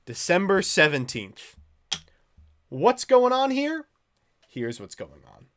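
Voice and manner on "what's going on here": high, loud, drawn-out mock question; exasperated demand. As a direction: demand an answer, slowly and loudly. Acting out his exasperated follow-up message.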